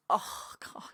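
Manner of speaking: high, drawn-out heckle breaking into laughter; mock exasperated goading. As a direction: goad reluctant mates, laughing at the end. Acting Knoxville goading his scared friends.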